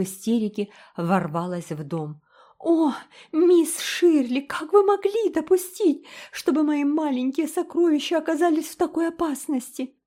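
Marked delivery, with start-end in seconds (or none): 2.6-9.9 a frantic mother blaming the governess; hysterical. A narrator's reading. Mother bursts in on Anne, frantic and near hysterics.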